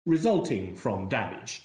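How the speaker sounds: "resulting from" picked out with deliberate emphasis; stress on RESULTING FROM. Real, not acted. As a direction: lean on "resulting from" before "damage". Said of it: "if I emphasize another causal connector".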